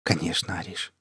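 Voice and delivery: soft, low reply to his wife; hushed, low husbandly assent; smiling agreement. A narrator's reading. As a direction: agree quietly with a gentle smile. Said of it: "улыбнулся Полынцев".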